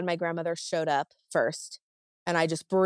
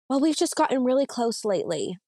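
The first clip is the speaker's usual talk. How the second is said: mock innocent mother; 6 semitones higher than usual. Mother's excuse, voiced.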